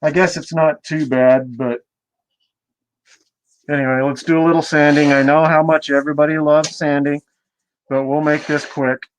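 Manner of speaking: muffled through a dust mask. Real, not acted. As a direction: talk muffled behind a mask. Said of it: "sorry I'm gonna be a little muffled".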